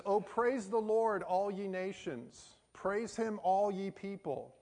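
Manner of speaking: slow, measured psalm reading; scripture reading. Real, not acted. Preacher reading the shortest psalm to students, slow and declamatory. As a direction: read it out slowly and deliberately to a congregation.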